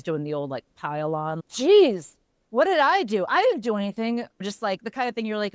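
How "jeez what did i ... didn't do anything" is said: exasperated parent. Retold or imitated. Husband piling on a grumpy son.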